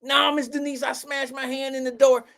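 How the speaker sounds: lightly voiced pleading girl; girlfriend's imagined answer.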